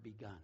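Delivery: "begun" set apart, low and soft; emphasis on begun. Real, not acted. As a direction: let "begun" land alone, dropped low after a pause. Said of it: "I want to emphasize that word".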